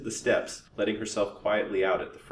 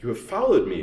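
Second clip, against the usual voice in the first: louder, startled and enraged; savage rage and surprise; 2 semitones higher, 8 dB louder than usual. A narrator's reading. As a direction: snarl it in sudden rage. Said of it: "with a savage scowl of rage and surprise".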